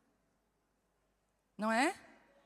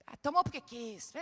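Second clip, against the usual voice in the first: dismissive scoff. Retold or imitated. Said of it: "rude mother at home".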